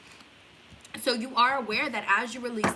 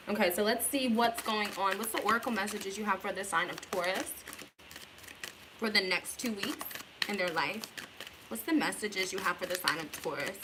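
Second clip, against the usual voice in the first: words around a lollipop; candy in the mouth; sucking a lollipop; 4 dB quieter than usual. Real, not acted. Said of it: "I have a lollipop".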